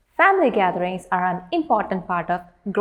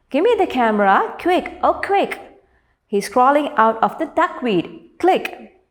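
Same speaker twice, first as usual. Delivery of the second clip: higher, lightly acted urgent call in a poem; mock excited calling; 4 semitones higher than usual. Teacher voicing onlookers calling for a camera, mildly excited shouting. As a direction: call out the poem's quote with mild excitement, pitch lifted. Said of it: "some people were shouting".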